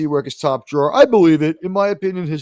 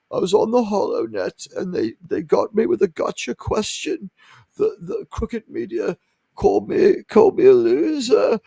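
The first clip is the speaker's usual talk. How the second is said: lightly hammed-up actor impression, higher pitched; mock theatrical accent; 3 semitones higher than usual. Host mocking Patrick Stewart's acting in Picard, mock thespian accent. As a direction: imitate an overacting screen actor. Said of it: "takes a accent from some better role".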